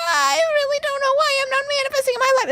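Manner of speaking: high, fast, whiny mock complaint; mock whiny lament. Mocking the client's ex with a high, fast whine.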